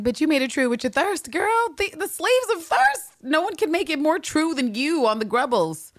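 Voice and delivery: high, teasing sing-song retort; mocking high comeback. The speaker mocking Walker for her thirst, high teasing. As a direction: tease her right back, way up high. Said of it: "It's like".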